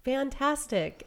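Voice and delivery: delighted surprise. Retold or imitated. Delighted at own photos.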